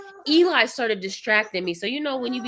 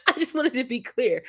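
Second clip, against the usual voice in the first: laughing repeat; 4 semitones higher than usual. Real, not acted.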